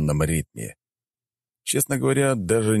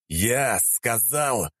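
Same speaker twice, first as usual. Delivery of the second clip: медленный грозный рык; прорычи приказ медленно; прорычал не своим голосом; 6 semitones higher, much slower than usual. Acted. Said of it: "прорычал я не своим голосом". (медленный рык не своим голосом)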